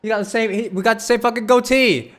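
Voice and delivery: high, loud, thrilled disbelief; excited shouting. Real, not acted. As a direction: yell it out, pointing at the lookalike. Sees game character resembling him.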